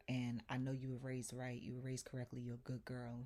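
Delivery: quiet, measured appeal; retold calming voice. Imitating the landlord calming her down, soft and steady.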